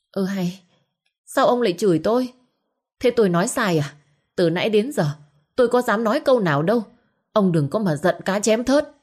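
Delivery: wife hitting back, offended and quick; indignant wife. Acted. Wife protests being scolded. (người vợ phẫn nộ, nói nhanh và cao giọng)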